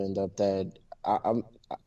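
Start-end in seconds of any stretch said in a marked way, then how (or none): none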